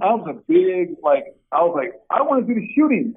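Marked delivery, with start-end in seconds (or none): 2.1-3.1 mock yell of an eager player piping up; retold yell. Redshirt player telling coach his drill pick, mildly mock-yelled. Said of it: "I just yelled it out".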